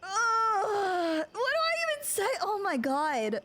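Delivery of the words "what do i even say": high teary shout; overwhelmed cry. Real, not acted. Streamer overwhelmed by gifts, teary shout. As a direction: cry out, lost for words.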